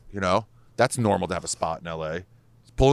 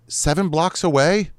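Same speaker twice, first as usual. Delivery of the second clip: incredulous mock outrage; 8 semitones higher, 4 dB louder, slower than usual. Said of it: "I'm like".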